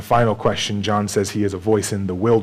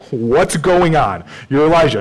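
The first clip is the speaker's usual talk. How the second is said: frustrated questioning; 6 semitones higher, 6 dB louder than usual. Retold or imitated. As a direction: press the suspect, fed up. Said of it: "There's some frustration that's going on".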